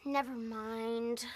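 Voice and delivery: slow, drawn-out letdown; draggy brush-off; dismissive. Acted. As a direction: drop the idea with stretched words. Drops dare after refusal.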